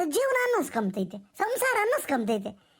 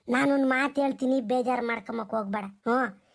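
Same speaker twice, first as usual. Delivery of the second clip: lowered voice, easing into advice; gentle counsel; 4 semitones lower than usual. Acted. Elder asking the daughter not to feel hurt, gentle counsel. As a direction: approach gently, pitched low.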